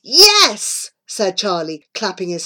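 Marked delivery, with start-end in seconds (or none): 0.0-0.9 high, loud yes; excited cheer. A narrator's reading. Charlie cheering the science plan, excited. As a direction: cheer it with a leap in pitch.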